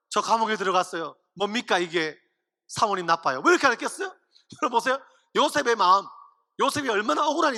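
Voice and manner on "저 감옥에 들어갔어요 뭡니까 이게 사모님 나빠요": lower, deflated mock foreign-worker accent in Korean; comic grievance in foreigner Korean; aggrieved foreigner's broken Korean. Joseph complains about the master's wife, mock foreigner accent. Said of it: "제가 요셉이라면 이렇게 간증하겠어요".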